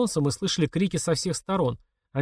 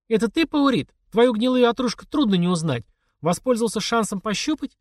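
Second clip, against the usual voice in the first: mocking call; 9 semitones higher than usual. A narrator's reading. Mother mockingly calls out to Paurit in the dark, high. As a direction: jeer into the dark. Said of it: "насмешливо крикнула мама".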